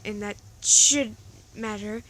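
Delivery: loud, insistent shout. Acted. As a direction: shout it, hammering should. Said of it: "Jack shouted".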